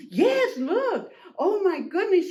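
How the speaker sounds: high-pitched flustered exclamation; alarmed duck. Acted. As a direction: exclaim in storybook shock.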